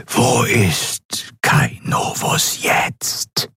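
a powerful figure who never needs to raise his voice; cold whispering governor. A narrator's reading. The governor demands the admiral's report, cold whisper.

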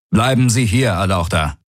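lightly voiced guard, curt; a hint of a guard's voice; alien guard voice. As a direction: order him to stay put. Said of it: "antwortete eine Aur-Stimme".

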